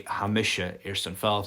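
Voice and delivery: "misha" carries the emphasis, evenly voiced; emphatic form. Shown as a demonstration. Teacher demonstrates wanting to leave, emphatic "misha". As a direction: give "misha" the emphasis without shouting it. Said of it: "There's your emphatic".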